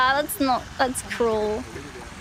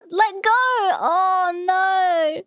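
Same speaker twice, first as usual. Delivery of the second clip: high, drawn-out plea; dismayed wail, higher than usual; alarmed cry; 5 semitones higher, much slower than usual. Real, not acted. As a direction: call out in dismay. Watching an animal grab something.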